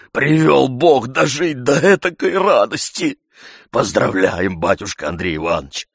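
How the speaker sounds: put-on an old servant gushing blessings; old servant rejoicing. A narrator's reading.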